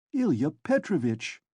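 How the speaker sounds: anxious. Acted. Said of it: "the head clerk was beginning anxiously".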